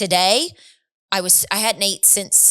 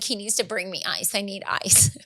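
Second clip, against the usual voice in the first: weak plea; 6 dB quieter than usual. Retold or imitated. Retelling desperate need for ice.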